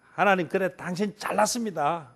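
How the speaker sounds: muttered sarcasm. Retold or imitated. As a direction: say it under your breath with a sneer. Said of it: "이건 시비 거는 거지".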